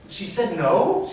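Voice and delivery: high, loud, drawn-out echo question; incredulous question. Retold or imitated. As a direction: throw it back in disbelief. Customer repeats the answer as question.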